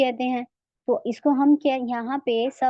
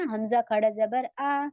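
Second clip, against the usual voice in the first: slow recitation demo; slower than usual. Shown as a demonstration. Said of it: "इसमें हुर्फ मद हमारा अलिफ खड़ा जबर ये है ना".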